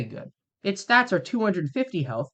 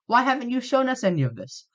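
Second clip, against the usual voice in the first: lightly voiced viewer, pitched higher; imagined viewer; 7 semitones higher than usual. YouTuber voicing a viewer's complaint, lightly mocked in higher pitch. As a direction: put the question as a complaining viewer. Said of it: "I can hear you asking".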